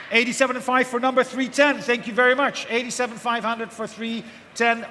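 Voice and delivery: brisk rhythmic auction calling; auctioneer. Real, not acted. Live auction calling bids.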